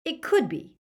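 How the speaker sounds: high, uneasy hedge; unwilling boy giving in; reluctant Draco. A narrator's reading. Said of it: "Draco's expression was full of reluctance".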